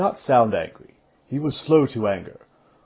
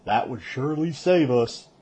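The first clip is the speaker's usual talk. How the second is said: dry; 4 semitones higher than usual. Acted. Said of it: "Perrin said dryly".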